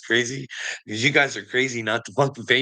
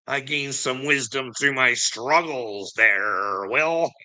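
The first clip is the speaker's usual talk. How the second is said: mock sage voice; 2 semitones higher, much slower than usual. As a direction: hand down wisdom like a fake guru. Mock wise reply in skit.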